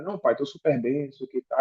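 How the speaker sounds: softly insisting all is fine; a mumbled lie that he's fine; quiet fake reassurance. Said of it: "E eu mentia pra meu pai".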